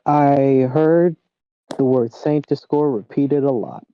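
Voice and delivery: muffled by pillows; under a blanket. Real, not acted. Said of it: "talking under a blanket?".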